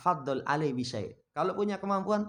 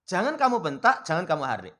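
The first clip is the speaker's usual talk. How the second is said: emphatic repeat; 6 dB louder than usual. Shown as a demonstration. Preacher repeating the Quran's command to the congregation, louder. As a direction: drive home "Jangan kamu bentak" with force. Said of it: "itu jangan kamu bentak".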